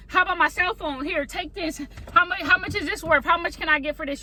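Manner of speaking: high, desperate run of offers; frantic bargaining. Pretend. Panicked diner begging the owner for ways to pay, high and desperate. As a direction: scramble for any way to pay, pitched high. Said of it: "you start saying".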